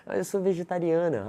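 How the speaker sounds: lightly put-on high female voice; woman's reply. Coach playing the date revealing she is vegetarian, high woman's voice.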